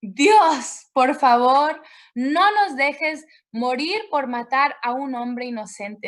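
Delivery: crying out to God. Retold or imitated. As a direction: cry out, begging for mercy. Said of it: "Y gritan".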